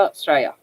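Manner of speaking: "Australia" reduced to STRAY-a; two syllables. Shown as a demonstration. Reminding viewers it's two syllables, "Australia" as Straya. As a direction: say "Australia" with barely any first syllable. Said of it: "Two syllables, remember?".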